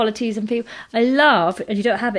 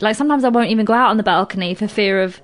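ordinary talk, nothing marked

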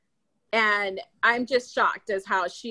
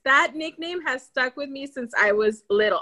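usual speaking voice

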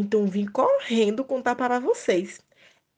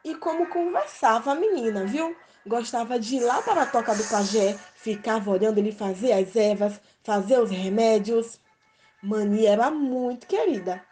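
storytelling voice; 2 semitones higher than usual. A narrator's reading. Story narration over music.

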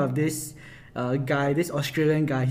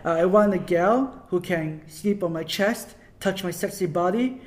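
light imitation of an Aussie accent; Tim Star Aussie accent; 4 semitones higher than usual. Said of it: "he'll be like".

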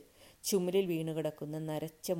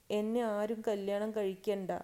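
high, raised, acted wail; tearful protest; 5 semitones higher, 5 dB louder than usual. A narrator's reading. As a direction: plead with a touch of weeping. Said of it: "പൊട്ടിക്കരഞ്ഞുകൊണ്ട് പറഞ്ഞു". (കരഞ്ഞുകൊണ്ടുള്ള അപേക്ഷ)

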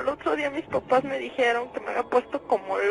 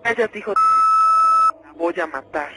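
demon snarl; 10 dB louder than usual. Acted. The demon silences the host, snarling. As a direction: snarl at him to shut up. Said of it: "hablaba con voz de hombre".

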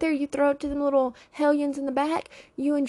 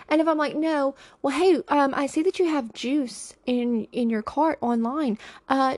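gushing breathy flattery; 2 semitones higher than usual. Retold or imitated. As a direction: gush like an overly sweet shopper. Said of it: "that's how I read the text".

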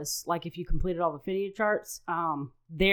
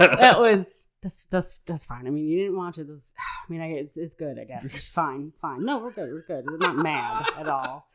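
mock passive-aggressive; 4 dB louder than usual. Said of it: "passive-aggressive voice".

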